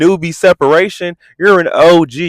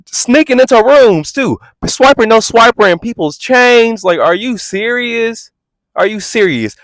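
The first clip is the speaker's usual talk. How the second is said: heated rant at Scotty; 5 semitones higher than usual. Real, not acted. Calling Scotty out for playing innocent, heated and building. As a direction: pile the charges on, heated.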